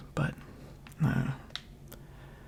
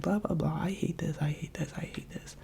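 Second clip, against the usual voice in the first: imitating a tiresome complainer, trailing off quieter; mock hater rant; 3 semitones higher, 4 dB quieter than usual. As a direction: drone through mock complaints, fading away. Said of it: "someone just be like".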